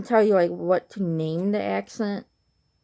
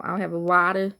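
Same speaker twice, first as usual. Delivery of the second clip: lightly imitated Boston accent on "water"; a small demo of Boston speech, "water" ending without its R. Shown as a demonstration. Vlogger imitating someone ordering water, Boston accent. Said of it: "they kinda say".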